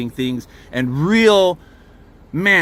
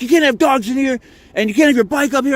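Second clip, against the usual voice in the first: mock guard scolding; 9 semitones higher, 3 dB louder than usual. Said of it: "he's like".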